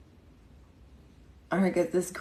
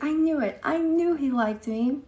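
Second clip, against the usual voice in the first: mock lovestruck fifth grader; gushing schoolgirl; 9 semitones higher, 3 dB louder than usual. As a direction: replay the schoolgirl's gushing, pitched up further. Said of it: "She was like".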